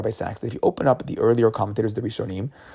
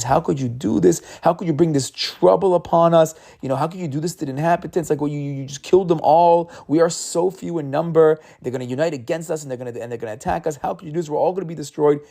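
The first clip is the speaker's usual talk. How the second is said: upset yelling; 5 semitones higher than usual. Retold or imitated. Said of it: "And he starts yelling".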